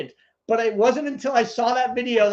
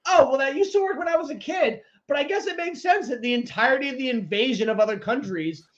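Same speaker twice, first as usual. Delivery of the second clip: sarcastic complaint; 3 semitones higher than usual. Retold or imitated. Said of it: "You fucking tell me".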